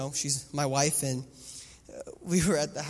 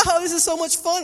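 put-on higher, chirpy little-kid voice; mock excited child; 11 semitones higher, 8 dB louder than usual. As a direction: play the delighted daughter. Daughters voiced in pillow fight.

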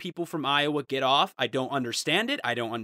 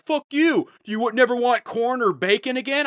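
much higher, louder indignant squawk; mock angry commenter; 8 semitones higher, 4 dB louder than usual. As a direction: screech it like an outraged fan. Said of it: "everyone, like, getting upset".

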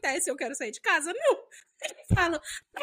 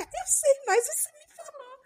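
imitating husband; 11 semitones higher than usual. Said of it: "E aí ele fica".

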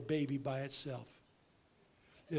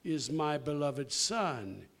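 voice from heaven; 4 dB louder, much slower than usual. Retold or imitated. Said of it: "And that voice said".

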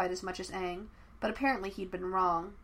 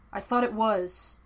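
slow, louder irritated retort; snapped; 5 dB louder than usual. Acted. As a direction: bite the words out, annoyed. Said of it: "he snapped".

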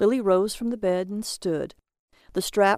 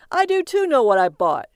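louder, called across rooms; calling out; 5 semitones higher, 8 dB louder than usual. A narrator's reading. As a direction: call out to the other room. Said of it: "he called out to her".

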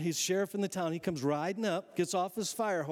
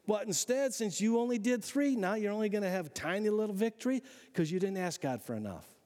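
higher-pitched mock scolding; scolding prophet; 4 semitones higher than usual. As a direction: scold him like a fed-up prophet. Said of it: "He says".

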